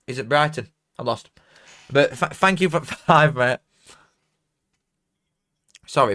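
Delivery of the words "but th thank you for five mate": laughing thanks. Real, not acted.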